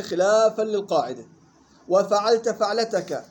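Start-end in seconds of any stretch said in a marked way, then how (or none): 1.9-3.2 وفعلت فعلتك, "fa" not "fi" at each word's start; fatha on both fa's. Shown as a demonstration. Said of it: "تقرأ بفتح الفاء فيهما". (بفتح الفاء في وفعلت فعلتك)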